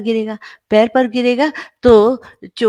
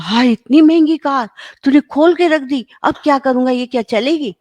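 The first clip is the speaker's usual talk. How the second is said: higher, louder mock telling-off; angry parent; 5 semitones higher, 4 dB louder than usual. Parent scolds child for opening expensive toy car, mock anger. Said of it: "अब आपको तो बड़ा गुस्सा आया".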